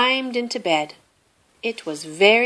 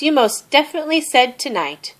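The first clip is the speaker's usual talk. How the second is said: mouse voice; 7 semitones higher, faster than usual. A narrator's reading. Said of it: "said Mouse".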